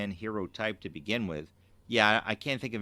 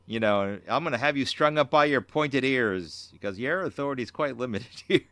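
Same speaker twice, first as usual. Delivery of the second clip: mock indignant Kirk; 3 semitones higher, 6 dB louder than usual. Cohost retelling Kirk demanding his personal guard, mock outrage. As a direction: ham up the captain's wounded pride. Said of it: "And he's going".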